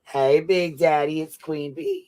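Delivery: teasing mock seduction as Queen Bee, breaking into laughter; mock role play. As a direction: play her sweet-talking her man, laughing. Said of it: "You role playing for him?".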